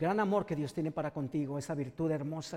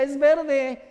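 awed joy; 7 semitones higher, 11 dB louder than usual. Acted. Healed man marvels at tree.

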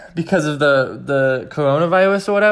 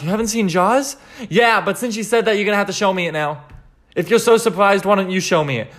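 acted astonishment; 6 semitones higher, 3 dB louder than usual. Acted argument with a friend.

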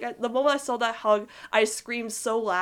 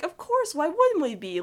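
much higher, sweetly sure of himself; Lincoln voice; 7 semitones higher than usual. Retold or imitated. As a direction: answer her like it's obvious. Lincoln's reply voiced again.

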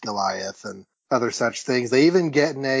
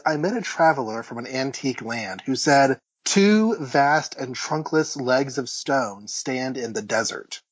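slow, measured poetry recital; unhurried recitation, phrase by phrase; poem reading. Acted. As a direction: read the verse out with deliberate weight. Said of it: "I'll just read it".

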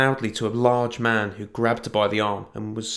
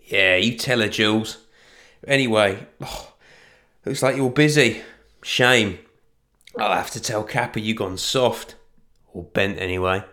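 loud, leering brute's taunt; sneering thug; 4 dB louder than usual. Acted. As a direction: taunt them like a grinning bully. Thug David mocks the women.

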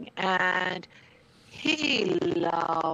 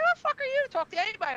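retold angry yell; 4 dB louder, much faster than usual. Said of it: "I said".

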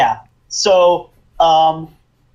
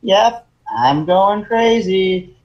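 awkward playing along; 3 semitones higher, much slower than usual. Acts out Bertolt playing along.

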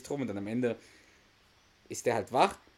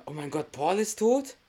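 higher, shocked question, imitating; mock shocked; 6 semitones higher than usual. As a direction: play the wife's stunned disbelief, lightly. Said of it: "reagiert Carrie total geschockt so". (gespielt geschockt)

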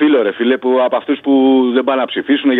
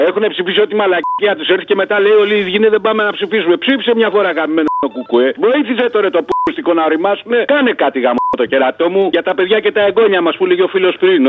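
heated, higher-pitched rant; worked-up rant; 4 semitones higher than usual. Real, not acted. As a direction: rant with exasperation, pitch pushed up. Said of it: "Έλα, ηρέμησε". (αγανακτισμένο, έξαλλο παραλήρημα)

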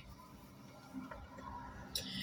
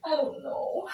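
put-on high whimpering baby; whiny fake crying; 11 semitones higher, 6 dB quieter, slower than usual. Girlfriend whimpers to boyfriend, high and whiny. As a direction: whimper it like a sulking child. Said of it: "handle these adults like children".

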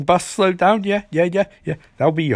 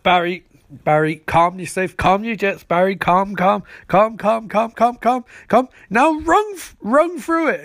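rapid repeats climbing higher and higher to a cry; mock urgent coaching; 5 semitones higher than usual. Harrison coaches Barry to phase through a wall, building urgency. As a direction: build from insistent calming to a high, urgent command.

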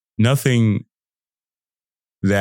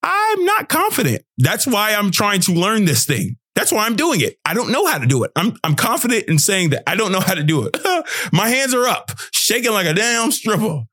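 mock learner; 11 semitones higher than usual. Mock growth-mindset voice.

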